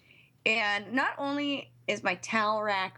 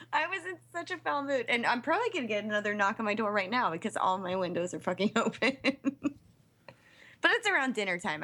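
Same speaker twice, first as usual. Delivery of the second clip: normal talking voice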